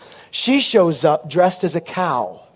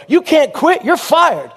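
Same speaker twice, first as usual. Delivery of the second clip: mock angry firing; 7 semitones higher, slower than usual.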